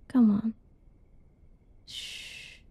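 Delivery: ordinary talk, nothing marked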